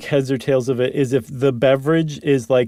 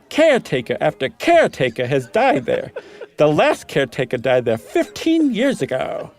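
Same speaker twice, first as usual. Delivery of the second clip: laughing through it; 3 semitones higher than usual. Real, not acted. Reader laughs through Meagle's line.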